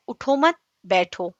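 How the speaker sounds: اٹھو مت run together, then a pause before بیٹھو; pause after مت. Shown as a demonstration. Teacher shows an Urdu example, pause after مت. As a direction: break the phrase after مت, leaving بیٹھو alone. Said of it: "اس میں کتنا فرق ہوتا ہے".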